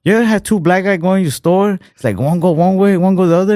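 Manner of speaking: high-pitched mock Asian stand-up comic; Asian-accented comic greeting a crowd; imitated Asian accent. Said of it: "like, an Asian dude".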